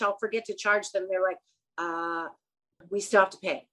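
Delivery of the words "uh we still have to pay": mildly hesitant, softly voiced customer; a quiet, tentative mock reminder. Customers timidly remind her to charge.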